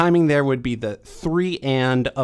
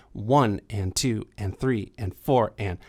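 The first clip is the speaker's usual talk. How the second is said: swung count; 4 semitones lower than usual. Shown as a demonstration. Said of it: "I said it with swing".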